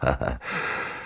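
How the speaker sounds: soft, low chuckle; quiet breathy little laugh. A narrator's reading. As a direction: laugh lightly before speaking. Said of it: "笑道".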